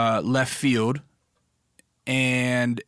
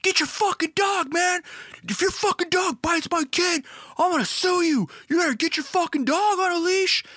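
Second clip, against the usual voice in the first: much higher, strained mock screaming of threats; retold angry yell. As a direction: play the furious dad yelling to sue. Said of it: "He starts yelling".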